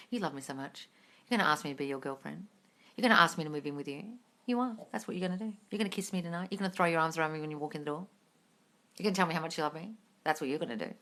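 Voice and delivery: soft, low murmured telling; quietly assured, as if thinking it at them; low, hushed, certain affirmations; saying it in your mind. Shown as a demonstration. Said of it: "Don't say anything out loud".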